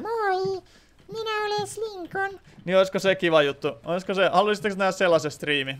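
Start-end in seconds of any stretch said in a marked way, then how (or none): 0.0-2.4 very high, soft squeaky greeting. Shown as a demonstration. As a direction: squeak it out like a cartoon. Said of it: "sellaista kimeätä silleen". (kimeä kiljuva ääni)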